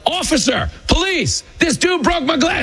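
very high, pleading mock yell; hustler yelling for police. Hustler calls out to police, high mock yell. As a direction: squeal for the cops like a hustler. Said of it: "the guy just starts yelling".

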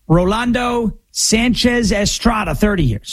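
mock ballpark announcer. Host reading the convicts as a batting order, mock announcer. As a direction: announce the roster like a ballgame lineup. Baseball lineup announcer parody.

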